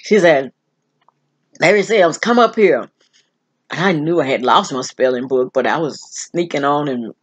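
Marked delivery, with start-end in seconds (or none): 1.6-2.9 lightly voiced strict teacher, louder; retold teacher's loud summons; mean teacher. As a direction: call a pupil up to the desk. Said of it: "She was the meanest teacher".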